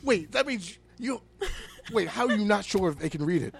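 loud, high, disbelieving outburst; can't believe what he's hearing; incredulous rant. Real, not acted. Podcaster ranting at hotel owner, loud and incredulous.

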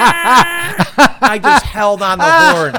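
high, loud laughter through the words; laughing hard. Real, not acted. Laughing at honking the driver away, loud laughing. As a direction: crack up while telling it.

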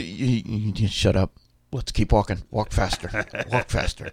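lightly voiced dad, a bit low, urging kids along; mock hushing dad. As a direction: shush the kids under your breath and move them on. Dad hushing kids, hurrying them away.

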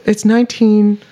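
slow, deliberate conspiracy theorist. Pretend. Podcaster revealing numerology to co-hosts, mild conspiracy voice. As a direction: lay out the numbers slowly like a mock conspiracy. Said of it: "slipped into the conspiracy voice".

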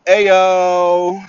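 loud, high celebratory ayo; a real burst of glee; excited whoop. Real, not acted. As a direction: cheer the easy money. Celebrating easy sale money.

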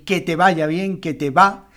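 "va" loud, "que" left light; stress on va. Shown as a demonstration. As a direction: hit the syllable "va", not "que". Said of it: "El va es la sílaba tónica". (acento fuerte en "va")

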